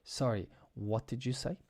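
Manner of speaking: gentle question with "say" rising at the end; courteous asking tune, up on "say"; nice polite intonation. Shown as a demonstration. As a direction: say "Sorry" politely, then lift "say". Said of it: "in a nice way".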